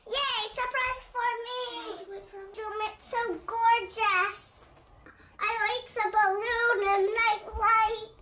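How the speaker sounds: put-on high, slow childlike squeal of joy; thrilled little girl. Chelsea gushing over her surprise room, high and slow. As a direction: play Chelsea delighted.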